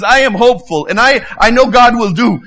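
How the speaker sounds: voicing the hopeful Ugandan man, bold; believing man quoted. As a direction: proclaim it like a man sure of God. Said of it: "and he says".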